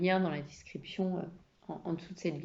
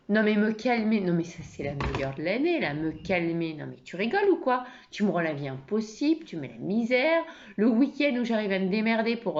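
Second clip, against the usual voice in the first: violent anger; 4 dB louder than usual. Acted. Wife exploding after being told to calm down, violently angry. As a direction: explode at him, piling up reproaches. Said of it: "la première version en mode, euh, colère qui vraiment dévie sur de la violence".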